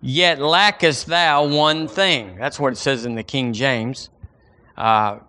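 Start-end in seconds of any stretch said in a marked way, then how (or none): 0.0-2.4 recited together with the congregation. Shown as a demonstration. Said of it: "Say that with me".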